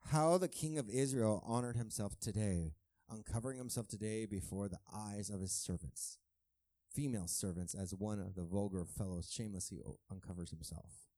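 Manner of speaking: mocking, sneering wife; dripping with sarcasm. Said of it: "You can almost hear it dripping with sarcasm".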